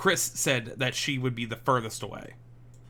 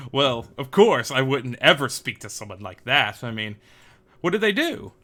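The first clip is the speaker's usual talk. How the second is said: lightly voiced uppity gentleman; a touch haughty, brushing off the very idea; uppity rich man; 5 dB louder than usual. Disguised passenger deceiving officers, lightly uppity. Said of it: "this dude's very uppity".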